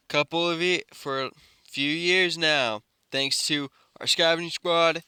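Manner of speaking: lightly voiced public announcer; microphone announcement. Aizawa telling the camp good news by microphone, announcing. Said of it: "uses a microphone saying".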